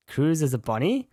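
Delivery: first, restrained reaction to a surprise; puzzled double take. Real, not acted. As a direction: ask it in mild disbelief, pitch climbing on "bunny". First reaction to learning Cruz is bunny.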